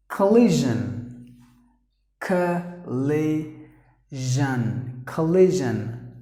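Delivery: collision said slowly as kuh-LI-zhun; careful pronunciation. Shown as a demonstration. Teacher introducing the next word, collision said slowly with a kuh start. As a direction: break collision into kuh, lee, zhun, then whole. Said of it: "The next word is".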